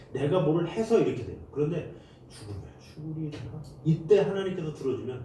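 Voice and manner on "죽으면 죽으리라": much softer, quiet surrender; resigned vow. Retold or imitated. Preacher voicing a believer's surrender, very soft. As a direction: breathe it out, giving up.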